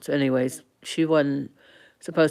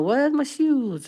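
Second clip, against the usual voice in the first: put-on failed British accent; 10 semitones higher, slower than usual. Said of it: "I can't do a British accent".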